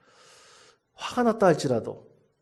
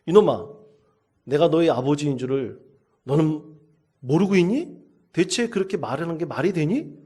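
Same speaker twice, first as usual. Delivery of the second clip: louder retold father's scolding; angry scolding; 3 semitones higher, 5 dB louder than usual. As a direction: snap at the cheeky son, offended. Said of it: "깜짝 놀라서 화가 났어요".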